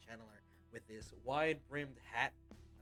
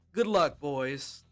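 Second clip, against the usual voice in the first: gruff farewell; 4 semitones higher, 13 dB louder, much slower than usual. Acted. NPC farewell at door.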